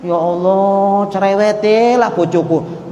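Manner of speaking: slow, drawn-out complaint; exasperated groan. Retold or imitated. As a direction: roll the eyes at a chatty wife. Husband annoyed by nagging wife. (suami kesal, mengeluh panjang soal istri cerewet)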